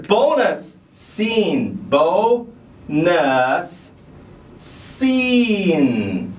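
"bonus scene" drawn out slowly; slow correction. Shown as a demonstration. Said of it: "也不对，不对".

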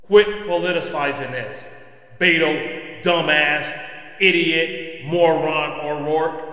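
loud, contemptuous jeer at Beto; angry name-calling. Real, not acted. Podcast host venting at Beto O'Rourke, loud angry insults. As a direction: spit out each insult hard and loud.

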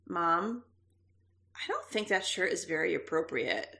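son's hesitant voice. Retold or imitated. Son quoted, shy about shirt.

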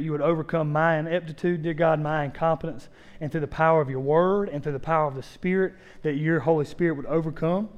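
earnest prayer with long pauses; public prayer. Real, not acted. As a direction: address God in measured, halting phrases. Leads the congregation in prayer.

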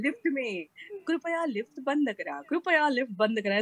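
lightly put-on lift prompt voice; recorded lift announcement. Shown as a demonstration. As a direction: recite it like an automated announcement. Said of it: "is my voice so many times".

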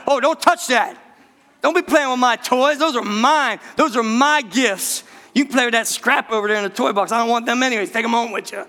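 put-on bratty kid. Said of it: "You're like".

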